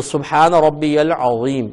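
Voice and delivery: العظیم said slowly with a heavy ظ; heavy zoe. Shown as a demonstration. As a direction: make the ظ in العظیم thick. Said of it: "موٹا پڑھیں". (ظ کو موٹا پڑھنا)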